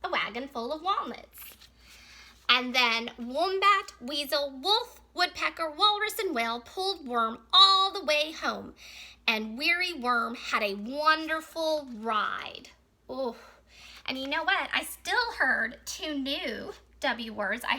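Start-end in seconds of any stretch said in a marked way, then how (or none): 2.5-12.7 measured read-aloud with animal names picked out; story reading. Acted. Teacher reads a picture book about Worm's wagon, story reading. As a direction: read it clearly to young children.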